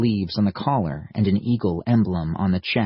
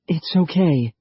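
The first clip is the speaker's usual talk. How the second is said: cooing softly; 8 semitones higher than usual. A narrator's reading. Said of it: "she cooed softly".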